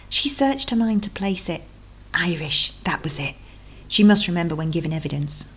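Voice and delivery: measured storytelling read; lightly dramatic novel reading; story narration. A narrator's reading. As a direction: read the chapter to draw listeners in. Author reads her novel aloud.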